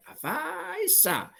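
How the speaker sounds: very high and slow, drawn out in awe; admiring wonder. Shown as a demonstration. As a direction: stretch it out, full of envy and amazement. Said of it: "有一点很羡慕".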